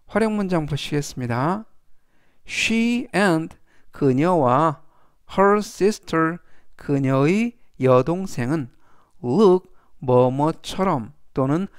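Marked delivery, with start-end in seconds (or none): 5.4-6.4 very slow, deliberate example sentence; slow model reading. Shown as a demonstration. Teacher reading the example aloud to students, slow and clear. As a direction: spell each word out for learners.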